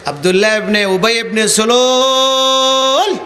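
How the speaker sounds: slow, drawn-out sneering name; mocking scorn. Shown as a demonstration. Preacher showing the congregation how to mock a hypocrite's name, slow and sneering. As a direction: drag the name out with contempt. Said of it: "এরম করে ওর নাম উচ্চারণ করতে হবে".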